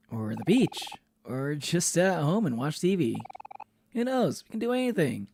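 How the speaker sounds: lightly voiced eager kid; cheerful game character. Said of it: "I haven't done these voices".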